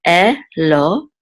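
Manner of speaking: "eh", then "lo", as separate syllables; syllable demo. Shown as a demonstration. Teacher joining two Hebrew syllables, careful demo. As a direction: sound out "eh" and "lo" with a gap between. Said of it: "so this is lo".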